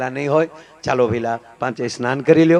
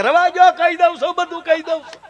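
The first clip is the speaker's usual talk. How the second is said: high-pitched mock pleading; panicked confession; 13 semitones higher than usual. Suspect begs police to stop beating his soles, acted high panic. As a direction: cry out like a beaten suspect giving in.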